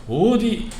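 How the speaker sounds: high-pitched scolding challenge; acted rebuke. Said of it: "하면서 이렇게 꾸짖는 겁니다". (목소리를 높여 나무라듯)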